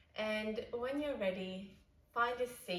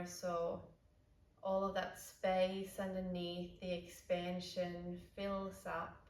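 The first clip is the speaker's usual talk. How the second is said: calm, unhurried yoga guidance with long pauses; guided meditation. Real, not acted. Yoga teacher settling the class into breathwork, calm guided meditation. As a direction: ease them into noticing the breath.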